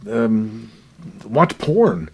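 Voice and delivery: loud, high-pitched incredulous suggestion; mock advice. Son imagining easier comforts for his discouraged dad, mock urging.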